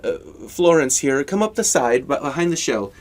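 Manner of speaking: a well-dressed goblin greeting a stranger in the woods; friendly goblin host. Acted. Goblin host gives directions.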